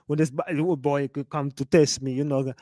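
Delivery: mock Jamaican accent; Academics' Jamaican accent. Streamer mocking a clip's new accent, mock Jamaican. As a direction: imitate a put-on Jamaican patois. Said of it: "developed this damn Jamaican accent".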